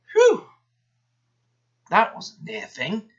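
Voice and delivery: a loud, very high "Whew!" of relief; puffed relief. A narrator's reading. Douglas relieved after slipping past the foreman, loud and high. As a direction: blow out the fright of a close call. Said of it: "puffed Douglas".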